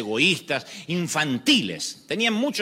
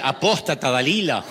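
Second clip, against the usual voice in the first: louder mock insult shouted; 3 dB louder than usual. Husband shouting a churchy insult back. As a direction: fling it back at her.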